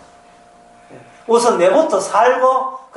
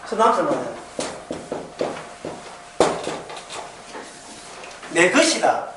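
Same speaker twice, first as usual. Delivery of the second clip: wife's boast; 3 semitones lower, 7 dB quieter than usual. Retold or imitated. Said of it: "이렇게 이야기해".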